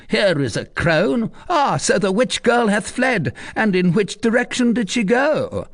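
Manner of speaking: mocking commander. Tristan questioning the crone, demanding. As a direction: sneer then demand.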